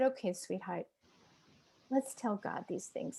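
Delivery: soft, tender retold counsel; kindly prayer leader's voice; gentle reassurance. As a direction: soothe softly, pausing between phrases.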